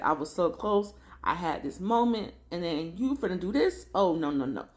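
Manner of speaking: retold indignation. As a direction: imitate a wronged man's mounting indignation. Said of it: "He is mad".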